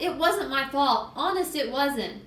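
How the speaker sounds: acted wailing excuse; tearful protest. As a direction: cry it out slowly in self-defense. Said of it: "Sheila cried".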